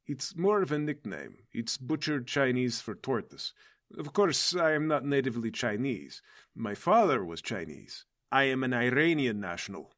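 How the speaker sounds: put-on turtle captain with a light Russian accent. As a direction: speak English with a Russian accent. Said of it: "so natively my accent is Russian".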